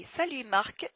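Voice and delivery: "Marc" with a crisp final K; "Salut Marc", silent T but sounded C; name ending pronounced. Shown as a demonstration. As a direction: finish "Marc" on a clear K after "Salut". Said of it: "you have to pronounce the end".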